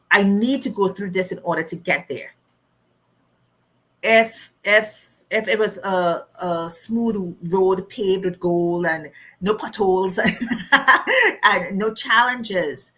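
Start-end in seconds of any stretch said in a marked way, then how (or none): 4.0-12.9 laughing. Real, not acted. Laughing at the idea of easy road.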